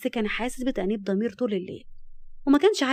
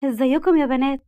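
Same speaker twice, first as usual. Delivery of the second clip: loud, raised, self-satisfied hello; smug greeting; 4 semitones higher, 7 dB louder than usual. A narrator's reading. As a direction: greet them full of yourself. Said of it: "وهي بتبتسم بكل غرور".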